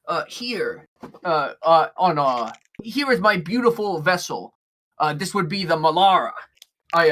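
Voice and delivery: a hint of an eager, hopeful shipmaster; lightly voiced orc captain. Orc captain meeting an experienced sailor, lightly voiced eagerness. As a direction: lightly play a genial captain, surprised then proud. Game master plays Downton the orc.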